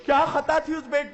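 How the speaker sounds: usual speaking voice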